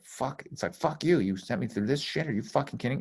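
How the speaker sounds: mock angry cursing at the sky; retold anger at God. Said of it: "it was anger".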